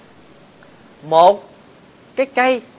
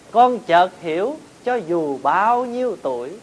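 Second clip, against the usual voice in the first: poem recitation. Acted. Recites a poem about mother.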